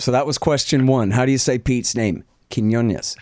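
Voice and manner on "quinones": Quinones as kin-YO-nyus, asking approval; checking Quinones. Shown as a demonstration. Host checks Pete's name, Quinones. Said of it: "Is that all right? Is that close?".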